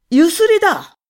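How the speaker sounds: high, loud shout; blustering shout. A narrator's reading. Husband shouting down the visitors, blustering. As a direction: bluster it, voice trembling. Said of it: "夫はいたけだかに言うのですが、その声は震えていました".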